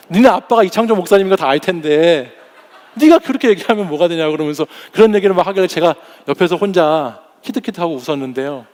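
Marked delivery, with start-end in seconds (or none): 0.1-4.3 half-laughing reproach of the son; mother laughing as she scolds her son about the pastor dad; laughing scolding. Retold or imitated. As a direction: scold while laughing through it.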